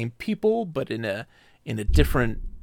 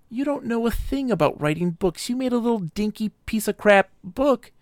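mocking arrogant god; 8 semitones higher than usual. Gen mocking Atris's book.

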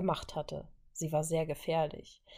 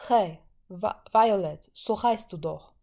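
louder call into the cell; 6 dB louder, slower than usual. Acted. Wanda calling into the cell to the prisoner, loud call. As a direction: call to the girl over the explosions. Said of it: "rief sie".

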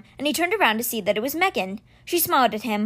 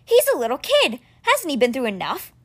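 put-on protesting boy Alex; 3 semitones higher, 3 dB louder than usual. Boy arguing with the stone cat, indignant. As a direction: object with disbelief.

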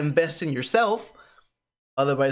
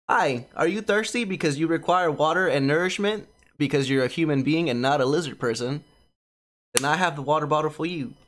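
mock commercial pitch; ad read voice. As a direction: sell it like a TV ad. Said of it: "this is where I say".

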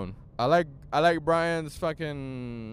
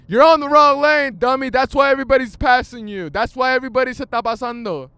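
loud, high scolding of a driver; real exasperated shouting from behind the wheel; road-rage yelling; 8 semitones higher, 10 dB louder, faster than usual. Real, not acted. Driver scolding a car in the wrong lane, angry yelling.

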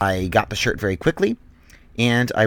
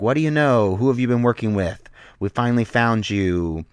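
raised-voice mock interrogation; badgering; 3 semitones higher, 5 dB louder than usual. Goon questioning a tied-up captive, mock badgering. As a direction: press the questions like a henchman grilling someone. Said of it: "started badgering me".

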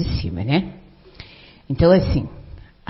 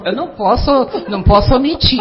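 usual speaking voice

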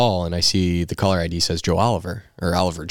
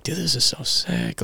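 higher, slow, awestruck voice; giddy excitement; 9 semitones higher than usual. Retold or imitated. Rookie picking his number, giddy and high. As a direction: let it float up, wide-eyed and thrilled.

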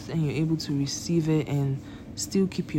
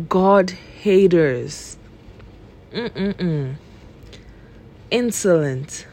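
slow, deliberate Bible reading; scripture reading; slower than usual. Acted. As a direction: read each sin out like scripture. Reads Bible verses aloud.

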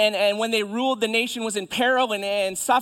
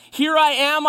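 high, loud declaration; impassioned cry; 7 semitones higher, 8 dB louder than usual. Acted. Isaiah answers God's call, crying out. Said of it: "Isaiah cries".

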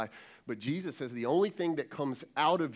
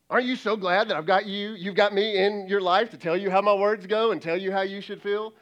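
higher, louder mock smug lecture; smug husband; 5 semitones higher, 5 dB louder than usual. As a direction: parody a condescending husband lecturing his wife. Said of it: "Here's what we're saying to our spouse".

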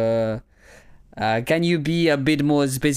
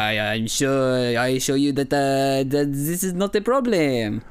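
put-on light French professor accent, hesitant. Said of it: "be a French professor".

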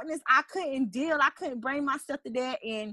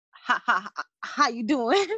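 imitating a stutter; 2 semitones higher than usual. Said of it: "he stutters and it's bad".

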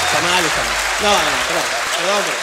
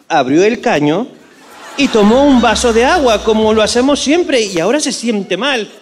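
put-on Spanish accent; 4 dB louder than usual. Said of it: "tu imitación de español".

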